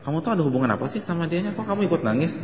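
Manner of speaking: quick mock jealous grilling; husband mock-jealous at his wife for crying at a wake. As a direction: tease like a suspicious husband. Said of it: "jangan dimarahin".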